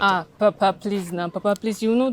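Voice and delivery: loud pleading. Acted. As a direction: cry out for mercy. Daughter begging disowning father.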